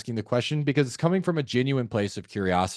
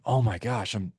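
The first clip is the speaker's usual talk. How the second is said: dropped, sincere sympathy; concerned tone. Shown as a demonstration. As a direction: offer gentle condolence, then check on them. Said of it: "go into a concern tone".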